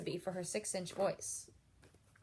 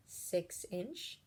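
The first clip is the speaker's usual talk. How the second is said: hushed and lower; soft voice; 4 semitones lower, 8 dB quieter than usual. Shown as a demonstration. Teacher lists voice levels, six-inch one softly. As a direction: say it gently, just for a neighbour. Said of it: "make the right choice".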